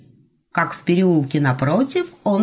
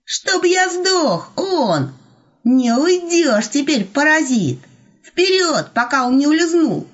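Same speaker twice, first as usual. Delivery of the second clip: eager urging; 8 semitones higher, 5 dB louder, slower than usual. A narrator's reading. Grey eager, urging Elena on.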